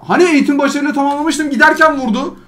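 1 whiny complaint. Real, not acted. Complaining to viewers about unfair hit.

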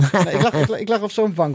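giggling through the start of a stoner story; laughing. Real, not acted. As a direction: tell it while still laughing. Laughing while telling stoned story.

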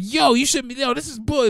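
mad outburst. Retold or imitated. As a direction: vent at him, incredulous and mad. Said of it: "I'm mad".

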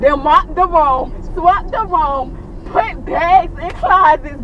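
each chore drawn out slowly; slow emphatic list. Real, not acted. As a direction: spell out every chore, slow and heavy. Listing his cleaning spree.

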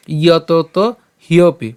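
ইয়তত হিয়পি slow, syllable by syllable; deliberate model of ইয়তত হিয়পি; broken-down pronunciation. Shown as a demonstration. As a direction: sound out ইয়তত হিয়পি carefully. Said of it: "শ্লোকটি ভেঙে দিয়েছি".

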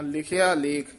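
ਲਿਖਿਆ ਲੇਖ with a short catch; stop after ਲੇਖ. Shown as a demonstration. Teacher marking a stop in the line. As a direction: halt briefly after ਲੇਖ. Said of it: "ਇੱਥੇ ਠਮਕ ਲੱਗ ਜਾਏਗੀ".

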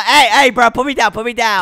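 loud, urgent objection; alarmed protest. Acted. Patient to friend carrying him off, alarmed protest. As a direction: protest loudly at being hauled away.

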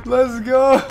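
high, loud hype cheer; celebrating shout. Real, not acted. Player cheering his own play, celebrating shout.

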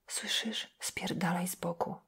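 breathless whispered curse; mumbled whisper. Acted. Exhausted girl whispering a curse at the priest. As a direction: spit it out with no voice left. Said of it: "wymamrotała".

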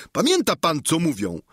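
a simple squire chattering cheerfully to his master; Sancho the squire. Acted.

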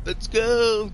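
excited shout. Real, not acted. Cheering as the match starts.

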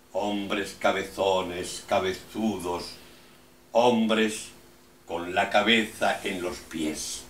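incantatory list in steady, even tones; measured, insistent verse reading; poem recitation. Acted. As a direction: declaim each image, then leave a pause.

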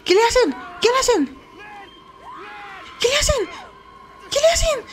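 panicked, climbing high shout; alarmed outcry. Real, not acted. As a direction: shriek in alarm for a friend. Alarm as Lin is attacked.

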